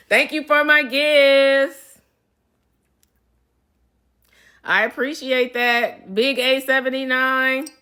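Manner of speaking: high, loud, slow sing-song thanks; excited high thanks. Real, not acted. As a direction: gush over the gifts. Thanking fans for live gifts.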